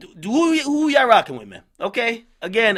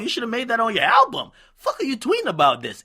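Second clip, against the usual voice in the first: raised scolding voice; calling out; 4 semitones higher than usual. Real, not acted. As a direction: shout it at her like a rebuke. Calling out Nikki.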